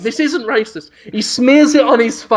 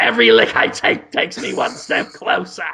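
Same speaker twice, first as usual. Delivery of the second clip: breathy movie hero catchphrase, hushed; mock action hero line. The hero announces his quest in a hushed, breathy trailer voice. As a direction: whisper it like a trailer tagline.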